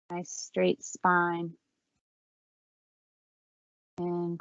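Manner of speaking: calm, unhurried yoga-teacher voice with long pauses; guided breathing meditation. Real, not acted. Yoga teacher leading the class in four count breathing, calm guided meditation. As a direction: guide them gently through each breath, leaving space between phrases.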